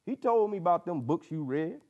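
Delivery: put-on an old man laying down hard lessons to a boy; old mentor speaking.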